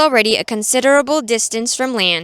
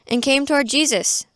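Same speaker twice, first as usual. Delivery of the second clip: ordinary talk, nothing marked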